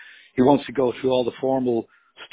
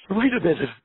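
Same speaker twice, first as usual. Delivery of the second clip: higher, lightly voiced mother, puzzled; a hint of a mother's voice; 7 semitones higher, 3 dB louder than usual. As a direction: voice the mother, mildly incredulous. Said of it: "And the mother says".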